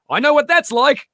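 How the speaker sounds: high-pitched imitation of a friend's reply; acted-out reply. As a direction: quote it way up high. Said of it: "the tone, which made it so much better".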